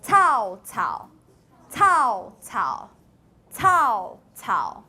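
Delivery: cao with the first syllable mid and the second dropped very low; tone demo. Shown as a demonstration. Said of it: "I'm gonna do it and you tell me the tone".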